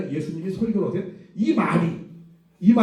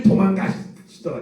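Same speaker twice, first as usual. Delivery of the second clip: blunt plain version; slower than usual. Shown as a demonstration. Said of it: "이렇게 쓸 수 없잖아".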